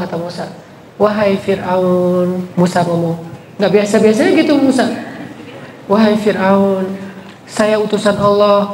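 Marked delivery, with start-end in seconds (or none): 1.0-2.5 slow, soft and low, addressing the king kindly; humble, lowered voice of a messenger; gentle speech. Acted. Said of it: "ngomong pelan-pelan ya Musa". 5.9-8.7 humble, lowered voice of a messenger; gentle speech. Acted. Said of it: "Musa jadi lembut ngomongnya".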